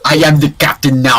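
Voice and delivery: put-on African accent shouted through laughter; laughing African accent. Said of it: "That was the worst African accent".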